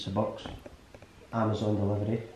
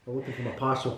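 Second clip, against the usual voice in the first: softer attempt at an American accent; 5 dB quieter, faster than usual. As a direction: have a tentative go at sounding American.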